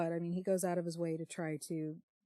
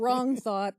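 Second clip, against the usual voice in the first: laughing, louder; 6 semitones higher, 9 dB louder than usual. Real, not acted. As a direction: laugh out the words teasing your friend. Laughing tease.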